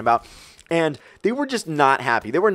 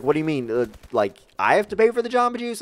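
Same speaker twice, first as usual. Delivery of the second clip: imitated puzzled girl, rising high; confused; 3 semitones higher than usual. Girl asking about paying for Jamba Juice, imitated confusion. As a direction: lift the pitch in mock bewilderment. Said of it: "she was really confused about it".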